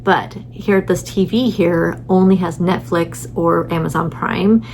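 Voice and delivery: normal talking voice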